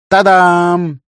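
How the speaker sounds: high, loud triumphant flourish; bright showman's ta-da; excited ta-da. A narrator's reading. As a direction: present it like a magic trick. Lema presents the bound gift.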